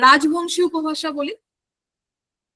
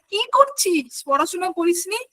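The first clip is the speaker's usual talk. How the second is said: mock scolding; 3 semitones higher than usual. People reproaching someone for mispronouncing, mock scolding. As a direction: chide in exaggerated disbelief. Imagined listeners scolding a speaker.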